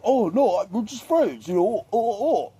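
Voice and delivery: high, flustered stammer of an awkward guy; a shy man denying he's in love, flustered and high; flustered loser. Retold or imitated. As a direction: fumble nervously, voice climbing high. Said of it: "And he's like".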